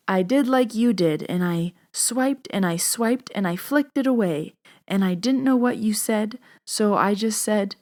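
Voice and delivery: light imitation of a Lebanese accent; a hint of a Lebanese grandma. Grandma reports doing Reiki herself, lightly imitated Lebanese accent. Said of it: "barely can write her name grandma".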